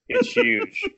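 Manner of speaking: bursting with pride at the crowd's laugh; excited. Real, not acted. Excited about the crowd's reaction.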